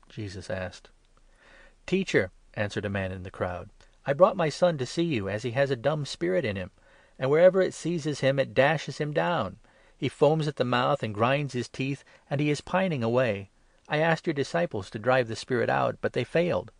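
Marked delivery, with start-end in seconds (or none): 1.8-2.3 high, loud desperate call. A narrator's reading. Father in the crowd calling to Jesus, high and loud. 4.1-16.7 high, loud anguished pleading; desperate plea. A narrator's reading. Father describing his son's fits to Jesus, loud and pleading.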